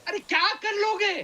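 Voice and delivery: high, dismissive dare; scornful taunt. Real, not acted. Panelist mocking a rival's threat, high and scornful. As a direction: laugh off his threat.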